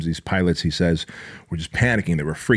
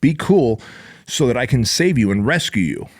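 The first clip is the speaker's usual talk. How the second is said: forceful; 3 semitones higher than usual. Retold or imitated. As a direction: bark it to calm him down. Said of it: "give 'em a really strong shake and go".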